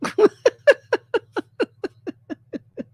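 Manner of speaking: long high cracking-up laugh; high laughter. Real, not acted. Cracking up at the video.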